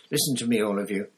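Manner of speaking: rousing them to their rights; heated appeal; indignant Hermione. Acted. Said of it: "said Hermione angrily".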